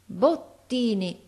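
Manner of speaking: exclaiming. Acted. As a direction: call the name out as it all comes back. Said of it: "esclamò".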